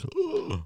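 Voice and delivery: high, soft gasped "ugh"; sharp gasp. Retold or imitated. Man retelling the seaside smell hitting him, acted gasp. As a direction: gasp in, then a small high groan. Acting out his reaction to smell.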